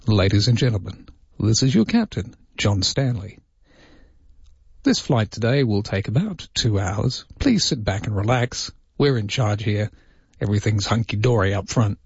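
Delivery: lightly acted confident captain's announcement; reassuring pilot voice. Pilot on the intercom telling passengers not to panic, lightly acted reassurance. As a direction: mildly put on a calm, don't-panic captain. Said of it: "they have that rest assured voice".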